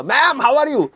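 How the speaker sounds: high eager greeting; chirpy hello to old teacher; imitating self. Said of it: "बोला".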